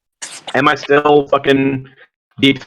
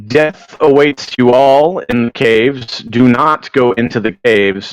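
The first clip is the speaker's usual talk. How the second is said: ominous warning. Shown as a demonstration. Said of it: "Do a long sentence".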